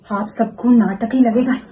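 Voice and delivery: angry shout. Acted. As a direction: let the anger swell until you're yelling at him. Wife confronts husband over insults. (गुस्से में बढ़ती हुई चीख)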